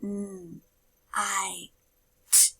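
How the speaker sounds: "Mm, I, t" as three separate sounds; sounding out words. Shown as a demonstration. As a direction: segment "Mm, I, t" sound by sound with pauses.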